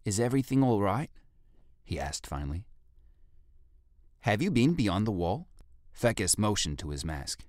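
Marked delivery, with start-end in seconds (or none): 0.0-1.1 a lightly voiced rough ape guard, raised and wary; cautious guard calling up, a bit louder. 4.2-5.5 a lightly voiced rough ape guard, raised and wary; cautious guard calling up, a bit louder.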